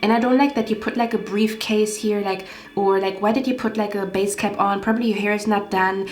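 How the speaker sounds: mock her nitpicking list of complaints; snobby picky woman. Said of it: "her energy was so disgusting".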